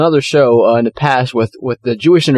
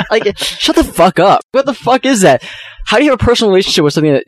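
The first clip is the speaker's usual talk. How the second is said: angry; 6 semitones higher than usual. Real, not acted. Ranting about believers' claims.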